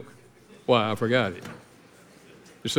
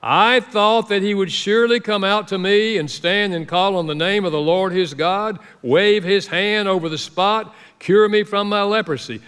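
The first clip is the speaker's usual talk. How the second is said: angry Naaman; 4 semitones higher than usual. Retold or imitated. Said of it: "Naaman went away angry and said".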